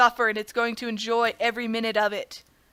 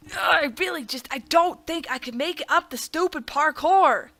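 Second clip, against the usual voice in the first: higher, whining frustration; exasperated; 4 semitones higher than usual. Real, not acted. Gamer stuck on stupid parkour, exasperated. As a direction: groan it out, fed up and straining.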